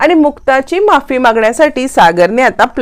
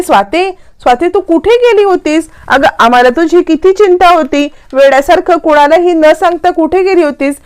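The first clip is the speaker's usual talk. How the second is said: relieved scolding; 7 semitones higher than usual. A narrator's reading. Mother relieved, scolding returned daughter.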